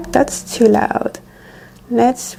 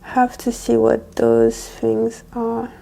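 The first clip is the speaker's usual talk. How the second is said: whispering. Real, not acted. Whispered aside reading menu.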